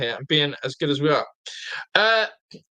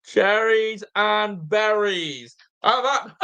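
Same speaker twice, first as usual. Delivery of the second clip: gloating; 5 semitones higher, much slower than usual. Real, not acted. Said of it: "Guess what?".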